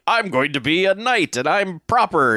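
mock British actor voice, unconvincing; bad British accent. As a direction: overdo a poor British-style accent. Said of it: "British person was pretending to be Dennis Quaid".

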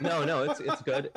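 laughing through a mouthful; giggling reply with food in mouth. Real, not acted. Laughing while chewing.

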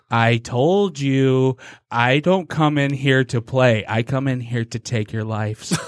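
very slow, deliberate threat; slow menacing killer. Retold or imitated. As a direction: drag every word out like a movie slasher.

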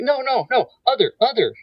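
high-pitched urgent protest; mock panic, pitched well above your own voice; retold frantic warning; imitating panicked wife. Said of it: "she was pretty well panicked".

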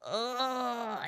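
soft drawn-out "ugh" of distaste; disgusted groan. Real, not acted. Host fed up with Southern accents, disgusted groan. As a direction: groan quietly in aversion.

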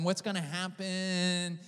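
drawn-out, doubtful question; mildly wary, stretching the words out; skeptical. Retold or imitated. Preacher recalls waiting warily at a healing conference, skeptical. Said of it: "I'm there very skeptical".

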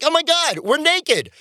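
mock shock. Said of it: "look at each other like".

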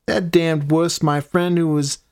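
lightly voiced griping hellion; demon voice. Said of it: "Hellions have been heard saying".

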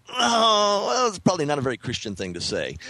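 a sudden high "Oh", then a half-laughing, tut-tutting second thought; mock rueful afterthought. Remembering laughing at a brother's review, then catching himself, in a high mock-rueful voice. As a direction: catch yourself mid-laugh and pretend to scold yourself.

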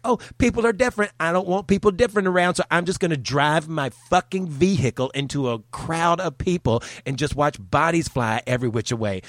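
high mocking voice of a hateful driver; mock attacker voice. Mocking the attacker to the audience, high and sneering. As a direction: sneer it out as the bigot. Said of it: "they're like".

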